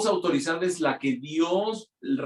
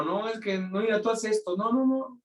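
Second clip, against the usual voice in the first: meddling non-pastor; 8 semitones higher than usual. Retold or imitated. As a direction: imitate someone butting in with contrary advice, pitch climbing. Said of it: "el que no es el pastor y le dijo".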